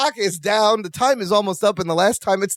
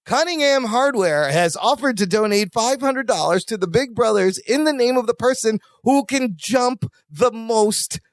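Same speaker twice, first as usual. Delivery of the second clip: higher-pitched event announcer, stretching the last words; 4 semitones higher than usual. Retold or imitated. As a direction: make a public contest announcement. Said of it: "the announcer".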